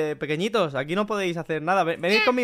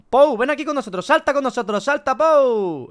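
calling the pet over, raised pitch; llamando; 4 semitones higher, 3 dB louder than usual. Pretend. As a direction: call out, stretching the last words. Llama al muñeco para que salte. (llamada en tono alto y alargado)

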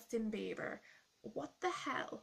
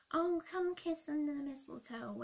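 higher, mocking kid voice; stupid little kid; 6 semitones higher, 4 dB louder than usual. Vlogger mocking the kid in the song, mock pleading. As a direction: lightly imitate a lovestruck kid calling. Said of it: "here's a stupid little kid going".

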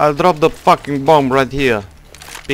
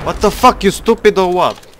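sharp annoyed yell, higher; angry outburst; 5 semitones higher than usual. Real, not acted. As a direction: snap at a teammate. Angry at teammate's mistake.

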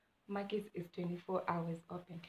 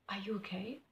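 soft, whispery careful question; hushed concern; 5 dB quieter than usual. Retold or imitated. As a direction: check on a friend under your breath. Retold check on upset friend.

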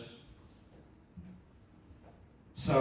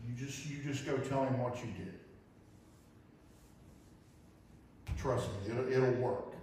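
soft reassurance; 7 dB quieter than usual. Retold or imitated. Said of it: "trying to comfort her".

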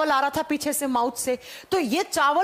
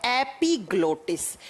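slow teaching term; 3 semitones lower, slower than usual. Shown as a demonstration. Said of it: "इसे क्या कहा जाता है?".

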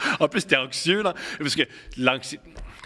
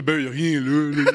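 mock nonchalance. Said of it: "je connais personne qui fait".

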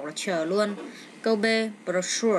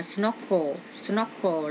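"snorkel" with SNOR stressed; stress on first syllable; much slower than usual. Shown as a demonstration. Teacher showing word stress to students, "snorkel" stressed at the start. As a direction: lean on the opening syllable of "snorkel". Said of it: "nhấn âm đầu luôn ha".

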